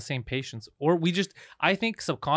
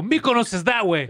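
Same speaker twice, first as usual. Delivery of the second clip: higher, louder and slowed, shooing a tourist off; mock yell; 6 semitones higher, 5 dB louder than usual. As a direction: yell it like a rude Greek waiter. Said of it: "They would yell at him".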